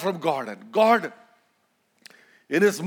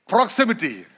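"proximity" in an Indian accent, tapped r. Shown as a demonstration. Preacher models proximity for the congregation to repeat, Indian accent. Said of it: "say it with an Indian accent".

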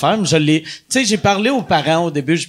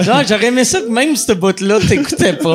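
laughing through the words; 4 semitones higher than usual. Real, not acted. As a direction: tease him while laughing. Teasing co-host.

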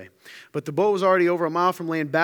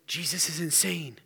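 softer muttered aside to the guys; hushed aside; 6 dB quieter than usual. Acted. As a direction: confide it under your breath. Turn around to the rest of the guys.

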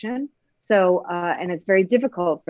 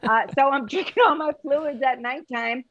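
patient voice; 6 semitones higher than usual. Retold or imitated. Patient telling Jill about fluids, high put-on voice. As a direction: do the silly voice she gives her patients. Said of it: "I always have that voice".

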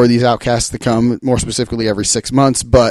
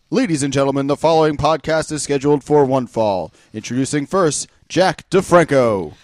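fighting game announcer. Pretend. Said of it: "do it in the announcer voice".

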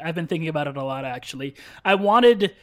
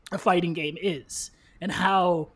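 words strained by coffee going down wrong; choking on a drink; slower than usual. Real, not acted. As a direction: voice caught mid-sip of coffee. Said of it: "You about to cry, man?".

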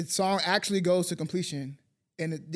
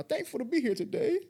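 higher, coy sign-on; playfully sexy; 6 semitones higher, 4 dB quieter than usual. Acted. Introducing himself to listeners, playfully sexy. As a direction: put on a slightly sexy lilt. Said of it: "you getting sexy for him".

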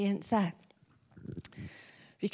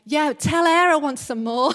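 put-on child voice; 5 semitones higher, 11 dB louder than usual. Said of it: "she was like".

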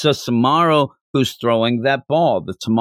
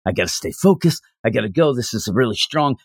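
mock Tanjiro; 3 semitones lower, faster than usual. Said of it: "he kind of repeats what he just heard".

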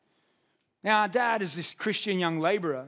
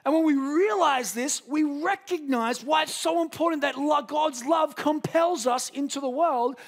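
preaching at full force; 8 semitones higher than usual. Real, not acted. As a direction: drive the point home to the congregation.

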